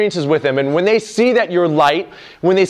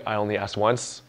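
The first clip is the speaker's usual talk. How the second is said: stunned parent; 8 semitones lower, 10 dB quieter than usual. Retold or imitated. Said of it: "your parents would be like".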